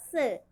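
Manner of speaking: "സ്" as an isolated S sound with a short vowel after; letter sound. Shown as a demonstration. Teacher showing children the sound of S, isolated "സ്". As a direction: say "സ്" as the sound, not the letter name. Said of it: "എസിന്റെ sound".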